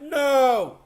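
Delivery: high, very loud wail; full-voiced, drawn-out howl of disbelief; retold audience outcry. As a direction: reenact a whole theater crying out. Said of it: "a lot of us went".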